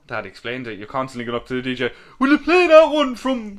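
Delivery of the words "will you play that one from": high, loud pestering call; fast, high-pitched mock punter yelling a request. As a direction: shout a request up to the DJ, hammed-up. Mimics pestering the DJ.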